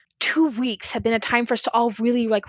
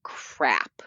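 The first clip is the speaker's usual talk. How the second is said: breathy, lower, soft crap under the breath; whispered curse; 7 semitones lower, 4 dB quieter than usual. Retold or imitated. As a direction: let it slip out under your breath. Muttered curse after argument.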